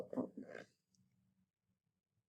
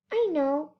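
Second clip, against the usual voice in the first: calling out; 6 semitones higher than usual. A narrator's reading. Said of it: "called the voice".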